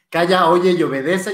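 mock-commanding shut up and obey; retold stern order. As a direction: bark it like a strict boss. Boss ordering silence, retold.

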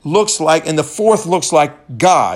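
first take, still shouted before the correction. Retold or imitated. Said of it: "Nebuchadnezzar shouted".

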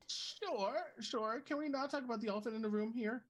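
high and fast, exasperated. Real, not acted. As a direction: throw up your hands, fast. Exasperated player.

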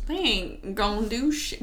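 mock Southern accent; slightly southern-accented impression; accidental southern accent. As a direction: drift into a put-on southern twang. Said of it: "Why did I turn southern?".

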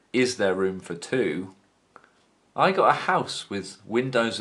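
slow deadpan lyric reading; reciting lyrics. Acted. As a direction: read the lyrics dry and slow. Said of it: "First verse".

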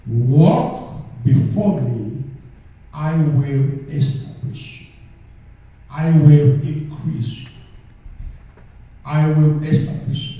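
slow, loud stress on "Walk" and "will"; proclaiming God's words. Acted. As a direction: stretch out "Walk" slowly, then hit each "will" hard.

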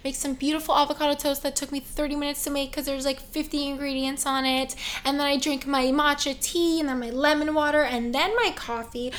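dreamy soft-spoken ASMR murmur. Pretend. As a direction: lull them with a soothing ASMR tone. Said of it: "as I use my soft A S M R voice".

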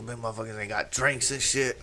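soft muttered complaint; mumbling. Retold or imitated. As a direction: grumble quietly to yourself, imitating a customer. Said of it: "he's mumbling".

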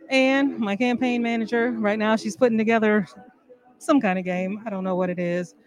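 muffled voice through a mask; talking inside a hot mask; inside a rubber mask. Real, not acted. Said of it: "It's very hot in this mask".

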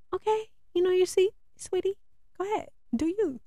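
high, sugary sarcastic brush-off; sarcastic sweetie. Retold or imitated. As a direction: humor them with fake sweetness. Sarcastic reply to passenger.

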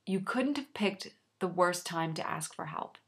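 hushed, breathy retelling of her reply; whispering. Retold or imitated. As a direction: whisper the words under your breath. Girlfriend's cold reply, retold.

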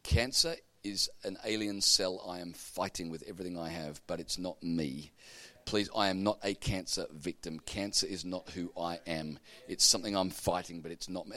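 quiet, gentle plea; softly plead, gracious and firm. Retold or imitated. Woman quietly correcting a rude boy, gently. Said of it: "She was so gracious".

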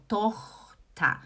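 "Tochter" split slowly as TOCH-ta; low-tongue O. Shown as a demonstration. Teacher showing students "Tochter", slow and syllabled. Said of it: "A minha língua fica aqui embaixo quando eu falo O".

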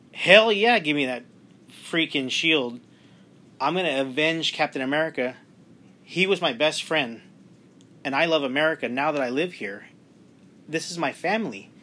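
impassioned, emphatic character quote; emotional. Acted. Host speaks as Black Widow avenging her best friend, emotional. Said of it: "I'm getting emotional talking about it".

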